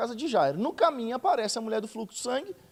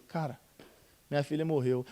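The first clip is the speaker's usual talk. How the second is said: stunned grief; 5 semitones lower, 6 dB quieter than usual. Retold or imitated. Jairo hearing his daughter died.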